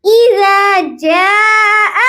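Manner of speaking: اذا with the hamza from the lowest part of the throat; hamza from deep throat. Shown as a demonstration. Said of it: "حمزہ کی آواز گلے کے سب سے نیچے". (اذا کا ہمزہ حلق کے سب سے نیچے سے)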